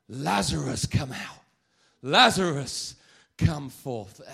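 loud, booming summons; full-voiced acted command; commanding call. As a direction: call out as if to wake the dead. Acts out Jesus calling the dead.

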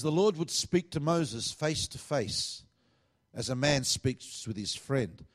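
slow, deliberate reading of the verse; measured Bible reading; scripture reading. Acted. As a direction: read the verse out slowly, weighing each word. Reads scripture slowly.

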